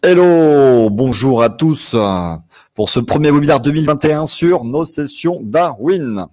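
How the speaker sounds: loud, slow game show host welcome; booming TV presenter greeting; Philippe Risoli TV host. Real, not acted. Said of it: "j'ai une voix de présentateur télévision aujourd'hui".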